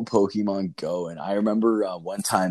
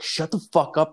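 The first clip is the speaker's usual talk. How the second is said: imitating an angry girlfriend, higher pitched; retold pissed-off snap; 8 semitones higher than usual. Girlfriend turns on the guys behind, imitated high-pitched irritation. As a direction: pitch it up in mock annoyance. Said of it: "my girlfriend got pissed".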